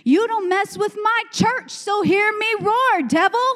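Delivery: a lion warning off the devil, growing stronger line by line; lion's roar. Pretend. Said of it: "That's what the lion is saying".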